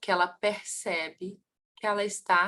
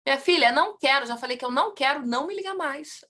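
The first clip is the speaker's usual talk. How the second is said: acted brush-off, higher and pressed; brusque Rio refusal; 5 semitones higher, faster than usual. Rio client refusing a phone sales call, brusque. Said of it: "a pessoa ia responder assim".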